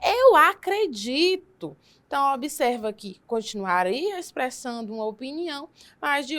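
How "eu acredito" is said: formal phrasing. Shown as a demonstration. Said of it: "Como ficaria isso mais formal?".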